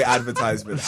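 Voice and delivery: "advertisement" as AD-ver-tize-ment; long-i pronunciation. Shown as a demonstration. Guest muddling which one he says, AD-ver-tize-ment. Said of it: "I don't say".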